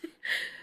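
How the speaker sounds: short, soft breathy laugh; small voiceless laugh of disbelief; rueful laugh. Acted. Mothra shakes her head at Godzilla, laughing ruefully. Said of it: "laughs ruefully".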